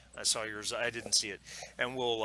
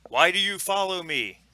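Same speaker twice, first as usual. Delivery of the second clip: raised pitch, louder challenge from a distance; woman calling out; 8 semitones higher, 7 dB louder than usual. Acted. Hidden huntress challenging the riders who trail her, calling out. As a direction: call out as a wary woman's voice. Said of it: "a voice calls out".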